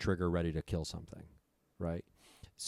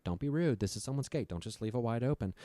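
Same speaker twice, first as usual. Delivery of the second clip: higher-pitched imitation of a nagging mom; mom's scolding voice; 5 semitones higher than usual. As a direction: do mom's voice in your head, pitched up. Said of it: "my mom's in my head".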